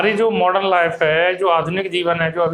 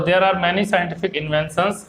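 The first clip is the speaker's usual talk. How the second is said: very slow, even English reading for students; a teacher reading a textbook line slowly and clearly; slow flowing read-aloud; much slower than usual. Shown as a demonstration. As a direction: read it out slowly so the class can follow. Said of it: "flow में कैसे पढ़ना है".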